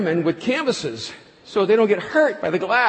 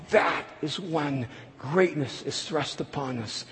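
solemn sermon close; 3 semitones lower than usual. Acted. Preacher's closing appeal.

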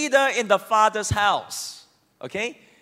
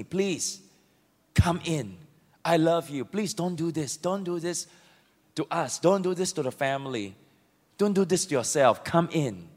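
soft, low, begging; pleading father; 6 semitones lower, 5 dB quieter than usual. Acted. Father begging his son to come in, soft and low. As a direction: plead gently with your son, much softer. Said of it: "begged him, pleaded with him".

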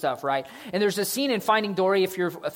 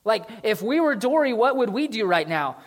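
Nemo asking; 6 semitones higher, 5 dB louder than usual. Acted. Nemo asks his dad.

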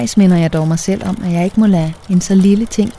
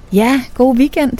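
higher, slow, drawn-out farewell; colleagues in near chorus; 6 semitones higher than usual. A narrator's reading. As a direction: voice a group of colleagues replying together. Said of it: "siger mine kolleger nærmest i kor".

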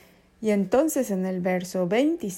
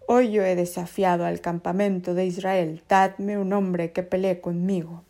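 taunting giant; 4 dB louder than usual. Acted. Goliath's challenge continues.

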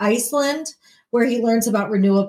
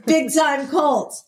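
laughing; 5 semitones higher, slower than usual. Real, not acted. Laughing repeat of a joke.

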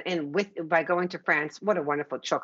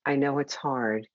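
nurturing parent voice; 3 semitones lower than usual. Shown as a demonstration. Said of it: "literally changing the voice and being warm".

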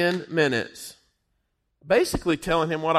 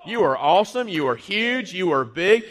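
joyful praise; 4 semitones higher than usual. Pretend. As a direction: burst out in delighted praise to God. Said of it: "you enter his courts and you say".

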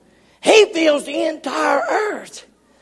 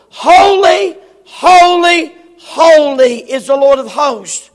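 crying out holy. Acted. Preacher voicing the seraphs, ringing cry. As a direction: cry it out to heaven. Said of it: "one cried unto another and said".

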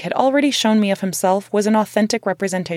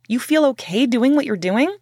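hounding; 5 semitones higher than usual. Retold or imitated. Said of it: "I hounded him".

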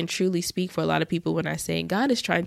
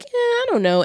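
high, hesitant mock shrug; reluctant brush-off; 4 dB louder than usual. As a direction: brush off the invitation lightly. Her own reluctant reply retold.

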